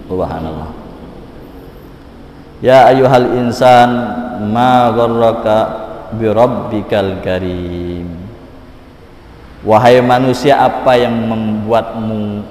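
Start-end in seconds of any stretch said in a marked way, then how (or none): 2.6-8.1 slow, drawn-out verse chant; measured recitation sinking at the close; Quranic recitation. Acted. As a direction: recite phrase by phrase, stretching the last word.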